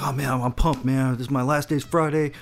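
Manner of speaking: mock bro talk. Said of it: "How come I never hear you speak like that".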